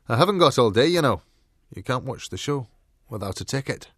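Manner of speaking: gruff scolding, loud at first then easing; grumpy ticket-checking dog; impatient gruff dog. Acted. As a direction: open loudly and impatiently, then lay down the rule. Gruff dog scolds without patience.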